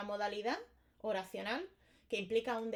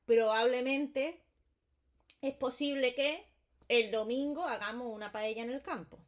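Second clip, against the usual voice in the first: doubtful, drawn out; 2 semitones higher, 5 dB louder than usual. Shown as a demonstration. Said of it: "expresa una duda".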